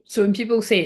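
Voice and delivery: speaking through hiccups; hiccuping between words. Real, not acted. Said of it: "sorry, I'm hiccuping now".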